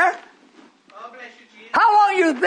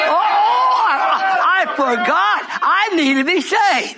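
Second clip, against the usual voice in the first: shouted, high start, then fading to a mock plea; mock sinner; 3 semitones higher, slower than usual. Preacher mocking a congregant's late plea for salvation, hammed-up. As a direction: mimic a sinner suddenly begging.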